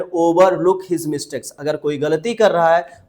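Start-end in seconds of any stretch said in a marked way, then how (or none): 0.0-1.5 each word drawn out slowly for learners; slow dictation pace; slow model phrase. Shown as a demonstration. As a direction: spell it out slowly for students to repeat. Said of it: "आप बोल रहे हैं".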